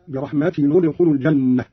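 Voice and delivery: "برحمة" ending -tinu, linked into "ندخل"; damma on tanween. Shown as a demonstration. Teacher showing Qalun's linking, tanween n voiced with u. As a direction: slowly join "برحمة ندخل" with an u on the n. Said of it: "بضم أولى الساكنين، وهو تنوين التاء".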